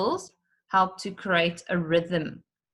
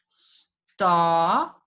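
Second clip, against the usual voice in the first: star said louder and held; end word stressed; 3 dB louder than usual. Shown as a demonstration. Teacher picking out the rhyming end word. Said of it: "the end words".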